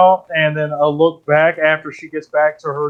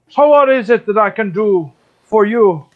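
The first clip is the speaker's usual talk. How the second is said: slightly raised, obliging bear voice; a hint of a friendly bear character; lightly voiced bear; 4 semitones higher than usual. Bear addresses the players in game.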